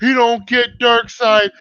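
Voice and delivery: slow, drawn-out mock of his friend; mocking imitation. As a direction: drag it out, teasing.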